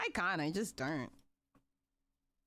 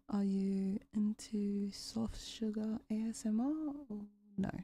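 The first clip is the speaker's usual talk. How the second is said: ASMR whisper. Shown as a demonstration. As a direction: whisper the question gently. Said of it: "when I start whispering".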